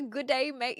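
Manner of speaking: failed attempt at an Aussie greeting; attempted Aussie g'day. Shown as a demonstration. Streamer trying an Aussie greeting for chat, attempted Australian accent. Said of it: "I can't even say g'day".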